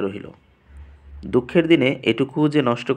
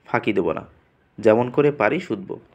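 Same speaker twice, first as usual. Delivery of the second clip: mocking imitation. Priest mocks Gafur's pleading to his face, lightly sneering. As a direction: parrot his anxious words back with scorn. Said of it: "গফুরের ব্যাকুল কণ্ঠের অনুকরণ".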